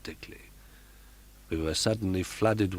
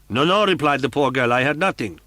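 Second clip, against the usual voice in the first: frightened denial; 7 semitones higher, 7 dB louder than usual. Acted. Frightened girl denies hearing.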